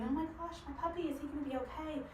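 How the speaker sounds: mock freak-out. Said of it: "freaking out and going".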